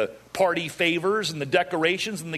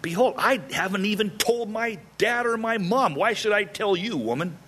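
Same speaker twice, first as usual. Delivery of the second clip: higher-pitched, mock-indignant husband; exasperated refusal; 6 semitones higher than usual. Husband rebuffing his tearful wife, exasperated. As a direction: play up a husband's exasperation, dropping at the end.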